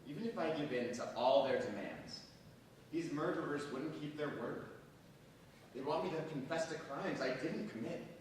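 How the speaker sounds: normal talking voice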